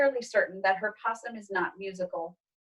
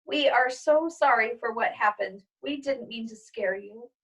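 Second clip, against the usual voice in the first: through tears. Acted. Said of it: "through her tears manages".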